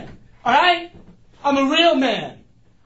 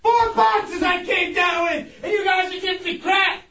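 yelling; 2 semitones higher than usual. Real, not acted. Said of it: "Stop yelling".

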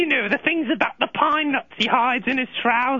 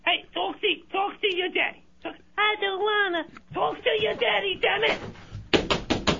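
softer, muttered aside; off-mic grumble; 7 semitones higher, 6 dB quieter than usual. Acted. Caller grumbling at the kid off the phone, softer.

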